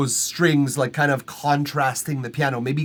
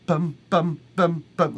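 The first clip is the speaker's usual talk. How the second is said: string imitation; 3 semitones higher than usual. Shown as a demonstration. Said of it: "jump in with some bum".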